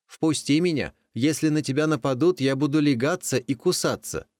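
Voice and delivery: high, hurried colt voice; pleading colt. Acted. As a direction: rush the plea out. Colt begs to come in.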